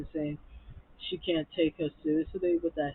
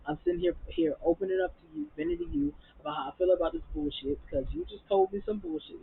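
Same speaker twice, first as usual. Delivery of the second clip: exasperated rant; 12 semitones higher than usual. Retold or imitated. Imagined telling-off of Toya.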